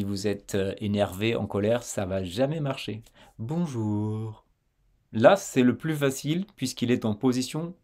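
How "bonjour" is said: relaxed soft R. Shown as a demonstration. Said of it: "Il faut que vous soyez détendu".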